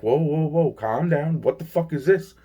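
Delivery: high, bewildered protest; retold alarm. Retelling telling the attacker to calm down, mildly alarmed. Retelling his shock at being hit.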